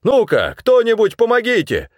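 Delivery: high, loud call; calling for help. A narrator's reading. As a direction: call people over. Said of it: "позвал он".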